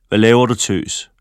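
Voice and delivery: loud angry man's yell; angry shout. A narrator's reading. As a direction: bark it from across the street. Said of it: "råber en høj stemme". (vred mand råber)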